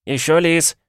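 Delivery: high shout, l for r; hawker's cry in Chinese accent. Acted. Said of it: "Как картавят обычно китайцы".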